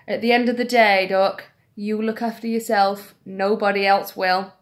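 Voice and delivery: Jeremy Kyle advice. Retold or imitated. To the old ladies, lightly voiced Jeremy Kyle advice. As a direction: deliver it like lightly voiced TV host wisdom. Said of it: "Jeremy Kyle popped into my mind".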